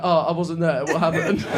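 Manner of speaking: low-pitched mock innocence; faux-innocent needling. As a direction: play dumb to wind him up. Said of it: "being a little shit".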